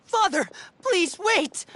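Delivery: slow, high cry of please wait; pleading call. Acted. Son calls out to stop his father's sentence, pleading.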